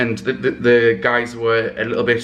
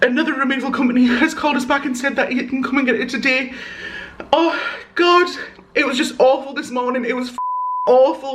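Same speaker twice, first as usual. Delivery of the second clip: tearful happy crying, much higher pitch. Speaking to the camera about the day's news, crying happy tears. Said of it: "It's happy tears".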